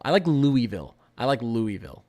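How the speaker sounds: Louisville as LOO-ee-vill; a clear "ee" in Louisville, no S; silent-S pronunciation. Shown as a demonstration. Streamer choosing his favourite version, silent-S pronunciation. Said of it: "I think it sounds nice".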